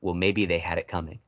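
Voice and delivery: mock-somber quote, sinking at the end. Retelling a movie character's reply to an accusation, understated somber. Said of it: "he just very somberly goes".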